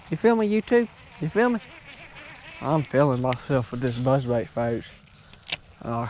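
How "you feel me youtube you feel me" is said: much higher, hyped question. Real, not acted. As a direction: pitch up, pumped. Hyped at viewers.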